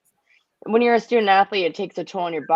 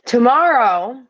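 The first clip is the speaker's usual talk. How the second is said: mock draft announcement. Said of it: "we wanna see you say it".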